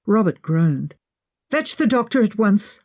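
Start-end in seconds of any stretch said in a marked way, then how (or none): 1.5-2.8 shouting. Acted. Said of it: "I shouted to Buchanan".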